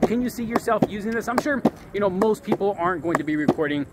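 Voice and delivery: normal talking voice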